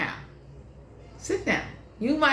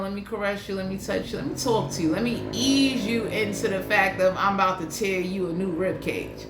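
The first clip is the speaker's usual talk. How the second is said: mock tender lover; 4 semitones lower than usual. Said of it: "didn't even bother saying".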